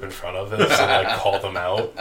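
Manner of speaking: laughter breaking into the words; laughing. Real, not acted. Son telling friends about dad confronting golfers, laughing. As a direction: tell it through a real laugh. Amused retelling of dad's confrontation.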